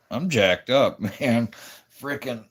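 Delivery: groaning from sore legs; hurting, strained after long walk; sore and aching. Real, not acted. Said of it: "Oh, I'm so sore".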